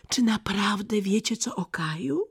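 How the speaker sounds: put-on high, urgent girl's question; hopeful high-voiced plea for news; eager questioning. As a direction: ask eagerly, pitched well up. Gerda eagerly questions the pigeons.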